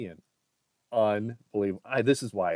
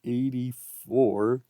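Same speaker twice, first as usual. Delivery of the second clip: excited; 3 semitones higher, 7 dB louder, much slower than usual. Real, not acted. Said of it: "Yes, I'm excited".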